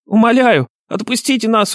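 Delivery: high-pitched bleating begging; repulsive, pitiful high voice; bleating plea. A narrator's reading. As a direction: beg for release like a bleating coward. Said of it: "до тошноты противный блеющий голос".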